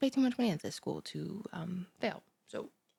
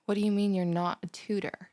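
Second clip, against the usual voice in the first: surprised; 5 dB louder than usual. Acted. Finds stranger isn't her tutor.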